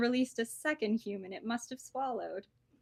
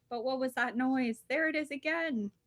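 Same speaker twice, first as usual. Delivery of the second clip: higher, louder alarmed cry; a startled cry, voice jumping up; 4 semitones higher, 5 dB louder than usual. A narrator's reading. Snake hearing the rumble again, crying out in alarm.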